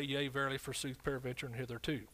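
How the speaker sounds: mock archaic phrasing. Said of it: "we don't say".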